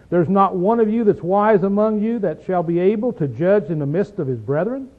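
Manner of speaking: lightly sarcastic, rising at "brethren"; a touch of mock disbelief as Paul; understated sarcastic jab; mild sarcasm. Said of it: "saying this with sarcasm in his voice".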